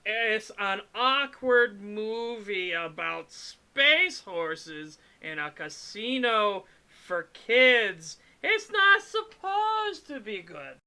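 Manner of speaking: high, slow squeaky goblin voice. Pretend. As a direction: stretch it out in a shrill goblin voice. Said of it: "Is that the goblin voice?".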